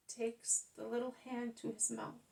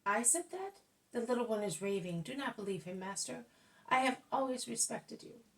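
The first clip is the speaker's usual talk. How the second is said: flustered denial; 3 semitones higher, 4 dB louder than usual. Acted. Old man denies, flustered.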